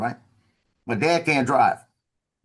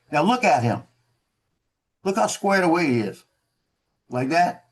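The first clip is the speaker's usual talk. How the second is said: raised, mocking officer voice addressing the room; 5 semitones higher than usual. Officer mocking a marine to his men, lightly raised. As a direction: show him off to the troops with a sneer.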